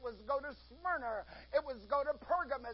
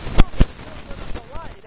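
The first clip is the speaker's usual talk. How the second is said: loud proclaiming shout; 20 dB louder than usual. Acted. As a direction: shout it out to the congregation. Preacher shouting Paul's words.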